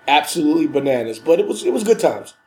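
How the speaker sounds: blocked nose from a cold; stuffy nose. Real, not acted. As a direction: talk through a stuffy head cold. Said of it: "You sound kinda stuffy".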